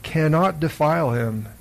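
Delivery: solemn, measured Gospel reading with deliberate pauses; scripture reading. Acted. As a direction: proclaim each phrase slowly and distinctly. Reads the Gospel aloud.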